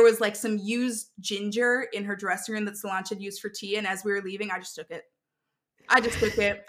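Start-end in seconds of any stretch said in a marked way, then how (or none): 4.5-5.0 low, softer confession; quiet aside. Real, not acted. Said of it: "repeated line". 5.9-6.6 louder, firmer repeat; emphatic repeat. Real, not acted. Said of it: "repeated line".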